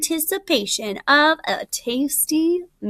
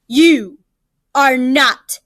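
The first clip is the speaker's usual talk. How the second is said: slow, louder tiger growl; mock tiger roar; 3 dB louder, slower than usual. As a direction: roar at the jackal who won't listen. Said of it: "roared the tiger".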